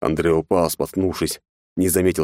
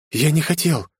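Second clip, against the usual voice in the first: high, frightened stammer; boy stammering over the body he killed; terrified babbling; 10 semitones higher than usual. Acted. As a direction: babble it out in horror. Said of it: "пролепетал Андре в ужасе".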